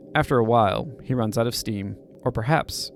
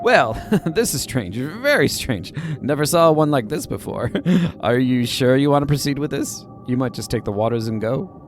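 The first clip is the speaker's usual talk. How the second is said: new hermit voice; 2 semitones higher, 4 dB louder than usual. Acted. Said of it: "New voice".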